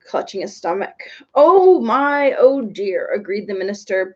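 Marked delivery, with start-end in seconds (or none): 1.3-3.1 breathless. A narrator's reading. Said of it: "breathing with great difficulty".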